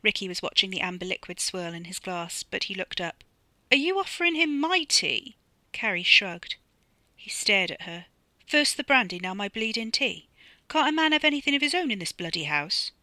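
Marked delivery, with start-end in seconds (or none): 3.7-12.9 higher, louder mock outrage; husband blowing up at his wife, louder and higher; indignant outburst. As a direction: rant at her over his tea.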